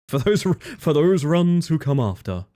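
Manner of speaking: slow, grand announcer tone; dramatic solemn dedication. Pretend. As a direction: proclaim it slowly like an epic toast. Solemn dedication to future runners.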